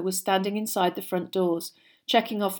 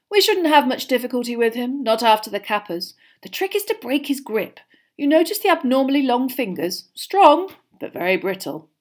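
teacher explaining a creature; 5 semitones higher, 6 dB louder than usual. A narrator's reading. Narrator voices the teacher.

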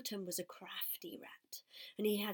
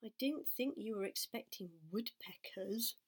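bitter. Acted. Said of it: "said Wilbur bitterly".

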